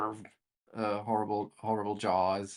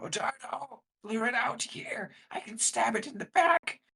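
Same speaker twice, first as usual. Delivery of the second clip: very high-pitched theatrical stage whisper. Orgrel calls to Otardo from the larger room in a stage whisper. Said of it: "trying to stage whisper to Otardo".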